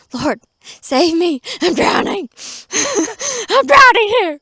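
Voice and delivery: hammed-up panic. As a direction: play Peter's panic for laughs. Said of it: "Peter's like".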